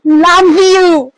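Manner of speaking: shouted I love you at full volume; loud love you. Pretend. Girlfriend shouting love you to boyfriend, loud. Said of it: "तुमसे जोर से बोल रही हूँ".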